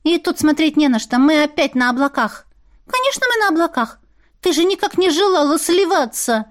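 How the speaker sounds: high, perky magical creature; high sassy familiar voice; Larin's voice. Acted. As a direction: pitch it up for the cheeky little familiar. Larin answering.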